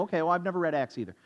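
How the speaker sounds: quick, offhand feigned ignorance; retold deadpan needling; mildly sarcastic. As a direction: toss it off, playing dumb. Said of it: "getting a little annoyed at my sarcasm".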